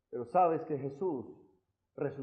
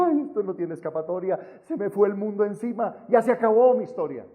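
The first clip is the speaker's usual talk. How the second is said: raised, building mock lament; acted exasperated despair; 3 semitones higher, 5 dB louder than usual. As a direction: wail mildly that all is lost, louder at the end. Acts out people despairing in trouble.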